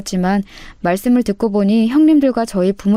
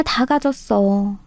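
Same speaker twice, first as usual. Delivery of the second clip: bitter mutter; much slower than usual. Acted. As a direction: drag it out under the breath, resentful. Muttered repeat of envy.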